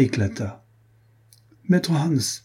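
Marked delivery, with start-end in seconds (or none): 1.7-2.4 a furious call, much higher; enraged count calling out; angry shout. Acted. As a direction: yell his servant's name in a rage. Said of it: "cria-t-il".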